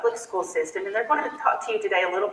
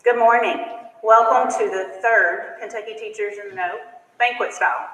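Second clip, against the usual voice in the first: teacher voice. Shown as a demonstration. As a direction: call the room to order like a teacher. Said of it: "I'm gonna have to use my teacher voice".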